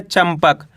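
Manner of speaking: चंपक with the nasal as a half m: cham-pak; half m sound. Shown as a demonstration. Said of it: "इस शब्द के अंदर अपन आधा माँ का उच्चारण करें". (चंपक को आधा म के साथ चम्पक पढ़ें)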